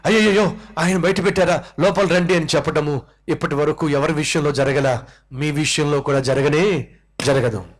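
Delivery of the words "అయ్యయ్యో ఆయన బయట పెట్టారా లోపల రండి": mock alarmed oh dear; dismayed surprise. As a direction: retell a flustered brother rushing to let him in. Brother dismayed at guest shut out.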